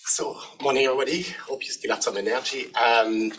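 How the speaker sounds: slightly hoarse, croaky throat. Real, not acted. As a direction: speak with a croaky, rough voice. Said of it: "You can hear I'm a bit croaky".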